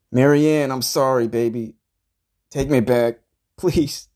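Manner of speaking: pleading. Pretend. Dumped man calling out to Marianne, mock-desperate pleading. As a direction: beg her theatrically, voice starting to climb. Mock begging ex to take him back.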